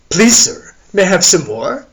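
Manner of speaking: put-on pleading English accent, loud and high; theatrical English waif accent; Oliver Twist. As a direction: beg in a mock English orphan accent. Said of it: "in his best Oliver Twist English accent".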